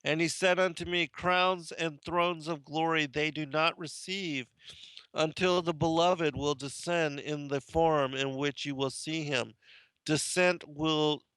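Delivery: deliberate, declamatory reading of ancient holy text; measured recital with emphatic phrase openings; solemn scripture reading. Acted. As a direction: read it out like scripture to a congregation. Reads Ascension of Isaiah.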